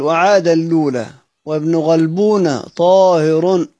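slow chanted line of the poem; verse recitation. Shown as a demonstration. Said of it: "قال".

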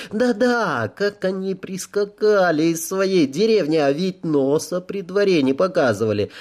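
насмешливый высокий голос; едко высмеять гостей; язвительная сплетница. Acted. Баронесса язвит о гостях. (насмешливо и ехидно)

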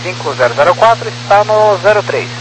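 tinny radio transmission; crackly military radio. Real, not acted. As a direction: voice through a cockpit radio. Pilot over ATC radio.

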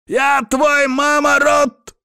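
very high, slow, loud broken-Russian yell; screaming curse. A narrator's reading. Soaked captive screaming a curse at Abram. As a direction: scream it at your tormentor, choking. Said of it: "орёт Ашот".

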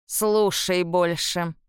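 slow, grunting crone voice; old woman's grunt. A narrator's reading. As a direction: toss it off with a scornful croak. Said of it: "крякнула старуха".

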